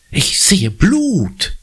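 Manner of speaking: slow, dark seer's murmur; spooky fortune-teller voice, drawn out; ominous murmur. A narrator's reading. Conny scaring her little brother, slow and ominous. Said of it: "raunt sie gefährlich".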